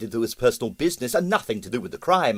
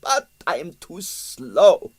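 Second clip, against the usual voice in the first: high, lively Russian impresario; excitable Russian impresario; excited retelling; 6 semitones higher, 5 dB louder than usual. A narrator's reading. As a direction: tell it with outrage. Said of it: "he said indignantly".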